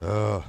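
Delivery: weary "ugh" of frustration; frustrated groan. Real, not acted. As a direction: let out a real exasperated groan. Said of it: "Frustrating, though".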